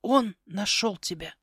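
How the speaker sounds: slow, ominous croak; chilling raven. Acted. Raven telling the girl she's found, chilling tone. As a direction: pronounce it as dread news. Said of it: "от его тона прошиб озноб".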